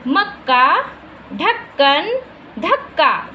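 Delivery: word by word, second क of each doubled pair stressed; stressed double consonants. Shown as a demonstration. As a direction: model reading for pupils to repeat. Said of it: "दूसरे शब्द पे जोर दे के बोलना है".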